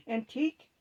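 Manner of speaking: urgent. A narrator's reading. Celio to the others, urgently asking after Teak. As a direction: press for news of Teak urgently. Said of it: "with a tone of urgency".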